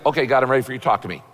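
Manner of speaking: low, grudging mock prayer; mock irritated. Frazzled latecomer sitting down to pray, mock irritated. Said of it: "in a irritating mood".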